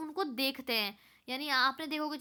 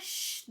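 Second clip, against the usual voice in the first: shushing hiss; 5 dB quieter than usual. Retold or imitated. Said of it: "ऐसे आवाज़ करके कि धीरे बोलो".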